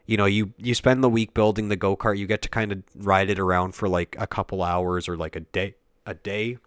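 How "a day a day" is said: hiccuping; interrupted by hiccups. Real, not acted. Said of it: "Sorry, I got the hiccups".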